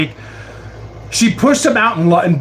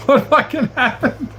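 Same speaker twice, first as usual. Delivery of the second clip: higher, laughing out the question; laughing disbelief; 7 semitones higher than usual. Real, not acted. Streamer pressing for the rest of the story, laughing. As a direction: ask it again, cracking up. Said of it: "I need a follow-up from you".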